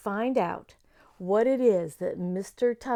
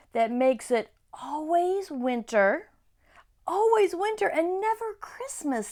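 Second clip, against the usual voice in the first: dramatic fawn; 7 semitones higher than usual. A narrator's reading. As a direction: let "always winter" hang ominously. Fawn describes the White Witch.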